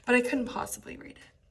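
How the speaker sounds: sarcastic teacher voicing Antony; sarcastic paraphrase. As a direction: play it coy and sly. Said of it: "I wrote in my book".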